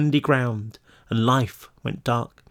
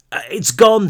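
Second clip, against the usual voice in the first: panicked shout; 7 semitones higher, 5 dB louder than usual. Acted. Panicked boy shouting at runners.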